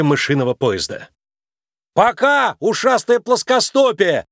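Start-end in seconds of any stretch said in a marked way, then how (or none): 1.9-4.3 high, slow gloating farewell; pleased thief mocking the cop; smug taunt. A narrator's reading. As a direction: gloat as you ride away. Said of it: "довольно усмехнулся он".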